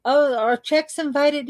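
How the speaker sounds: money gushing like an eager host, pitched high; voice of money calling. Pretend. Money calls its coin friends to the party, high excited voice. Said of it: "It's calling".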